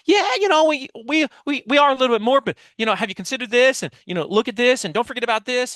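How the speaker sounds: over-explain like a rattled seller; defensive diatribe. Retold or imitated. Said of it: "they go on a diatribe".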